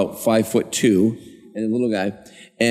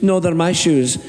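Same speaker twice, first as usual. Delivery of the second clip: higher, put-on housekeeper voice; mock squabbling, pitched up; Conrad arguing back; 6 semitones higher than usual. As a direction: argue back as the little housekeeper. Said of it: "He goes".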